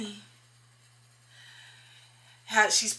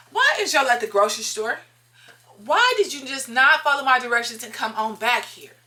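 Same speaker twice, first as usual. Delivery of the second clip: louder, fed-up questioning; exasperated scolding; 3 semitones higher, 5 dB louder than usual. Retold or imitated. Scolding her pregnant friend for ignoring directions, exasperated. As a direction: scold her for not listening.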